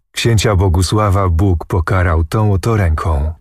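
ordinary delivery, nothing marked

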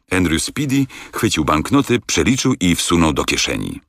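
plain reading voice

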